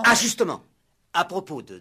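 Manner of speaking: excited eager exclamation; eager outburst. Acted. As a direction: jump in eagerly with good news. Inspector eagerly jumps in.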